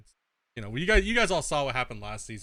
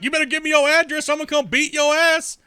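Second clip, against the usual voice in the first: higher, louder mock tough-guy; mock threat; 12 semitones higher, 8 dB louder than usual. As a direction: puff up like a kid playing tough. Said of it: "the next one's like".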